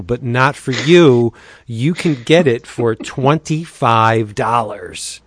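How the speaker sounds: upbeat pitchman read, leaning on the deals; breezy promo voice with punchy price reveals. Acted. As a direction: sell the comics like a radio spot host. Monthly DCB sponsor spot.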